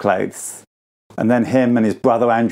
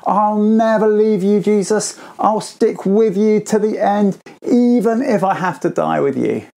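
fierce vow; 6 semitones higher than usual. Acted. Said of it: "And Peter was furious".

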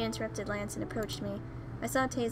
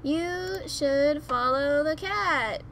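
slow, drawn-out loud exclamation; excited urging; 5 semitones higher, 6 dB louder, much slower than usual. Real, not acted. Reader telling heroine to follow, excited urging. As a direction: stretch the words out, high and loud.

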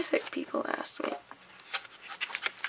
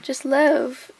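put-on Southern accent; 6 dB louder, much slower than usual. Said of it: "Her accent is fun to do".

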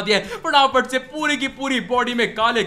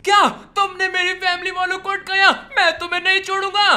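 angry shout; 5 semitones higher than usual. Acted. Hero furious at villain.

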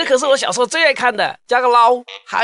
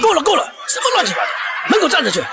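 exasperated; 6 semitones higher, faster than usual. Acted. Teacher cuts off exasperated.

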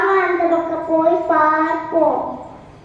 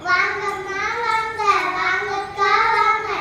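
singsong street hawker; 4 dB quieter than usual. Acted. Shopkeeper calling customers.

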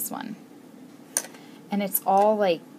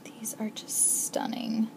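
whispered, much softer; awed whisper; 6 dB quieter than usual. Real, not acted. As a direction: breathe it in wonder. Awe at charms.

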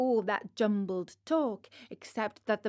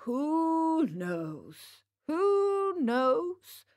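drawn-out musing, second time pitched much higher; calm; 6 semitones higher, much slower than usual. A narrator's reading. Geppetto calmly answering the cross puppet, musing singsong. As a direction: muse gently, stretching each word. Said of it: "repeated Geppetto calmly".

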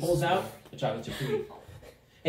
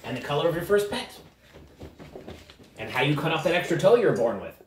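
slightly higher, knowing gnome; lightly voiced uncanny gnome; 3 semitones higher than usual. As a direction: reveal their secrets with a hint of theatrical menace. Gnome figure taunts the party.

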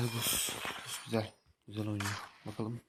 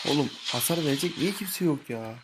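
frustrated yell; 4 semitones higher, 5 dB louder than usual. Real, not acted. Yelling at team mid-fight.

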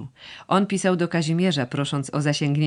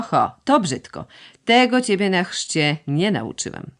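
put-on old sorcerer calling out; 3 semitones higher than usual. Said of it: "zawołał z progu".

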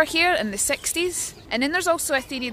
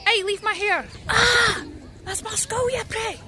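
high startled cry at the pecking; startled yelp; 9 semitones higher, slower than usual. Real, not acted. Bird pecking her head, high startled cry.

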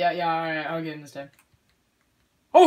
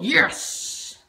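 excited cheer; 8 semitones higher, 8 dB louder than usual. Real, not acted. Cheering a good throw.

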